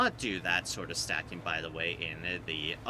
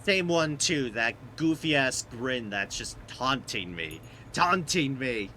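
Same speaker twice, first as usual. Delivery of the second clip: exasperated ranting; 5 semitones higher, 4 dB louder, slower than usual. Real, not acted. Ranting at the trophy grin.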